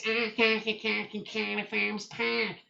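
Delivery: lightly mock South Welsh lilt; Cardiff Welsh accent. Teacher imitating people in Cardiff, in a mock Welsh accent. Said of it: "they're sounding like this".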